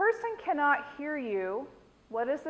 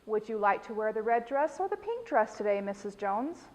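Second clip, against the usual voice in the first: gentle choice; 2 semitones lower than usual. Shown as a demonstration. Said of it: "offer them something along the lines of".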